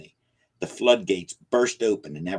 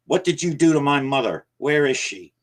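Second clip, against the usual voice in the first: much higher and louder; desperate demand; 8 semitones higher, 6 dB louder than usual. Acted. Hero demands about his mother.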